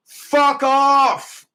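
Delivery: high, loud furious shout; sudden real yell. Real, not acted. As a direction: bark it out at the troll. Yelling at the troll.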